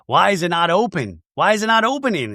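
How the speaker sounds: high-pitched imitation at a locked door; put-on voice rising into complaint; mock exasperated woman. Voicing Mary at locked door.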